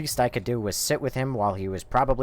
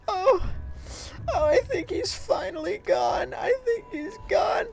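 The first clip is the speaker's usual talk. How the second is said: very high mock whimper; tearful. Woman thinking the cat is finally gone, mock tearful. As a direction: squeak it out as if weeping. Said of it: "she's, she's crying".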